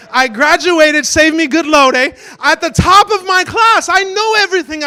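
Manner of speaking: loud, fast street-tough boast; hammed-up hype about knowing every bad word; hyped-up bragging. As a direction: brag like a proud thug graduate.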